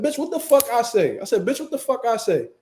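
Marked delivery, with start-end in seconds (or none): 0.0-1.2 higher-pitched, irritated challenge; mock-indignant demand, pitched up; raised voice. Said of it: "Once I get the raise in my voice". 1.5-2.5 higher-pitched, irritated challenge; mock-indignant demand, pitched up; raised voice. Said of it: "Once I get the raise in my voice".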